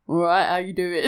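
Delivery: low blokey greeting with a laugh; gruff lad asking how you are, laughing through it; man voice. Shown as a demonstration. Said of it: "No, like a sentence".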